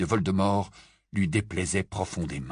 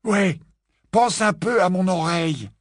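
higher, louder teasing George; raised, teasing; George quipping; 10 semitones higher, 4 dB louder than usual. A narrator's reading. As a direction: George joking about his ear. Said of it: "lança George".

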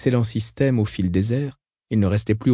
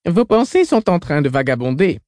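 growled; 5 semitones higher than usual. Acted. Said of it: "grogna Tamalan".

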